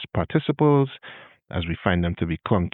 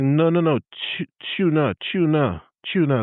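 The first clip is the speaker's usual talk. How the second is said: insistent correction; 6 semitones higher than usual. Retold or imitated. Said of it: "And I was like".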